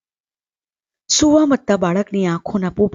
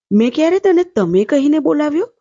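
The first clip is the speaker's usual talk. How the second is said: higher-pitched, questioning protest; mild protest; 8 semitones higher than usual. A narrator's reading. Stepmother questions the sick child, mildly protesting.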